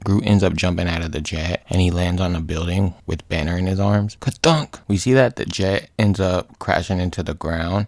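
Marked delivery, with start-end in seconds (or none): 4.2-4.8 high spoken thunk effect; punched two-part thunk; imitated landing thud.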